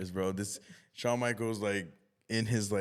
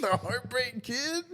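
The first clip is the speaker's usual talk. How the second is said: laughing; 12 semitones higher, slower than usual. Real, not acted. Laughing disbelief.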